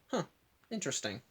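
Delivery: soft, pensive "huh"; quietly intrigued, imitating; mildly intrigued. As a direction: murmur it as an imitated musing reaction. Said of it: "just immediately goes".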